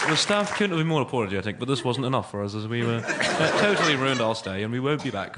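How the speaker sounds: prim Middle England complaint voice; Middle England accent. Acted. Comic reading out a negative TripAdvisor review, Middle England accent. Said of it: "It's my TripAdvisor accent".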